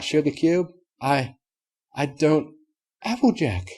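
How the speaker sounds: halting, stunned lady unicorn; lady unicorn stammering in disbelief; Rarity voice. Acted.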